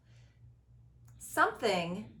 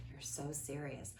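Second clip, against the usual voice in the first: lower, softer, flat mock reproach; mock serious; 6 semitones lower, 12 dB quieter than usual. Host mimics people calling her serious, low and soft. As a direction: drop the voice to mimic a dour critic. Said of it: "or am I so serious".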